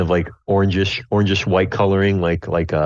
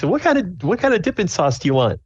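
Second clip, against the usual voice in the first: high, bright cook calling out; high server voice; 11 semitones higher than usual. Acted. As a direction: sing the question up high like a diner cook.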